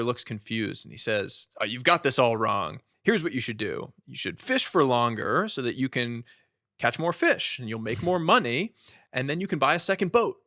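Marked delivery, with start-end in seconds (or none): 1.6-10.4 pushy salesman, pitch climbing higher and louder as the plan grows; eager banker pitch. Retold or imitated. Retelling the banker urging the fisherman, building excitement. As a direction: talk him into the boat empire, getting more and more carried away.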